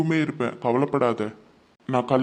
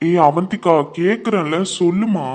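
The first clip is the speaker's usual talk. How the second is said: louder, pressing her to answer; insistent call; 4 semitones higher, 5 dB louder than usual. Acted. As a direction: demand an answer, raising the voice. Husband presses wife to answer. (வற்புறுத்தி உரக்கக் கேட்பது)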